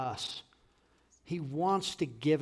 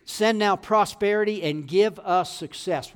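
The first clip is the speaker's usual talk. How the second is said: slow, loud declaration of a plea; David crying out; 3 semitones higher, 5 dB louder, slower than usual. Retold or imitated. Preacher repeats David's prayer to the church, loudly crying out. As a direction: punch out each word of the plea. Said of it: "David is crying out".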